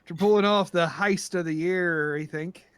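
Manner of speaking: lightly voiced Irish brogue; Irish accent. Pirate celebrating a heist, light Irish accent. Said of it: "how bad my Irish accent is".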